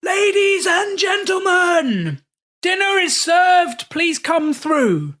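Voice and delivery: booming, high, slow posh British announcement; grand British call to dinner; British accent. Retold or imitated. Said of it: "in a very British accent".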